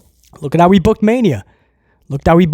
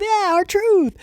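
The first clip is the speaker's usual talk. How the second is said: mild mock cheer; 12 semitones higher, 5 dB quieter than usual. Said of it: "they like R-Truth".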